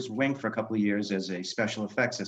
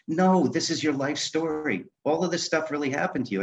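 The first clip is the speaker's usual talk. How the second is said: insistent mock scolding, pitched higher; retold yelling; 6 semitones higher than usual. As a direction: push the point, higher, without really shouting. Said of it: "they both started yelling at me".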